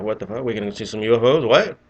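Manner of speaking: quick incredulous questions, jumping up on the last word; excited disbelief. Retold or imitated. Airman retelling his reaction to possibly seeing UFOs, mildly excited. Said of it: "excited to see something in my life".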